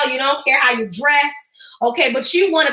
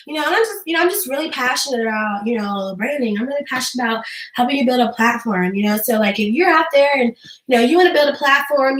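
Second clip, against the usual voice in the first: mildly droning, low-energy pitch; mock a host who claims passion without sounding it; unenthused livestreamer; 4 semitones lower than usual. Shown as a demonstration. Dull host pitching branding to viewers, mildly monotone. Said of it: "but they talking like this".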